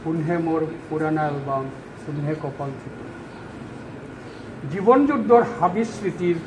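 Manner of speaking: poetry reading that settles into a quiet close; poem recital. Acted. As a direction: recite line by line, letting it sink away. Resumes own poem.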